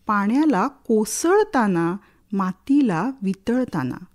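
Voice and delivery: lilting verse, refrain lifted then falling away; expressive poetry reading with rising and sinking lines; dramatic poem recitation. Acted. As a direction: recite with a swelling, questioning refrain. Recites favourite poem about rain.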